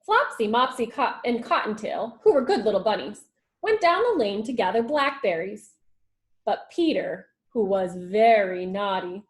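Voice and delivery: put-on lively read-aloud storytelling for children; story narration. A narrator's reading. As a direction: read it like a teacher to the class. Teacher reads story aloud.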